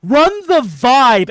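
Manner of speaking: loud, slow swaggering line; cocky boast. Retold or imitated. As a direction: declare it with swagger. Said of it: "he said".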